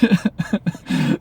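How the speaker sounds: airy disbelieving laugh; breathy laugh. Real, not acted. Reacting to her taunt.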